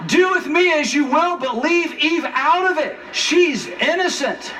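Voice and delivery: a mock heroic Adam taking the blame; noble Adam. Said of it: "That's what he should have said".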